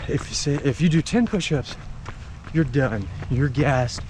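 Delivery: talking while running; a little out of breath from running; while jogging. Real, not acted. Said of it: "Like right now, if I didn't have a habit of running, I would not be out here in the rain".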